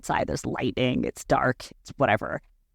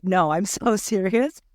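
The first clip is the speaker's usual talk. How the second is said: slow, higher, laughing through it; laughing insistence; 5 semitones higher than usual. Retold or imitated. Telling her partner she's in labor, laughing and insisting. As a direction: laugh while insisting it's real. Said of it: "I'm like".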